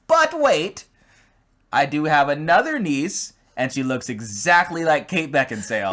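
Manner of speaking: lightly voiced scheming witch; a hint of a sly witch; evil witch voice. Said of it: "You sound like an evil witch".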